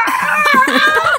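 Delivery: high loud shrieking Ah; mock hysterical shriek on the phone; hysterical scream. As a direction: scream like a friend in crisis. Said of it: "hysterically screaming".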